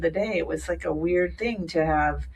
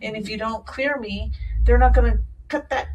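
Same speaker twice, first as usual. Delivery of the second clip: higher, urgent pleading; retold panic; 8 semitones higher than usual. Patient pleading with the clinic before surgery, urgent. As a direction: beg them to call back. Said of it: "And I'm like".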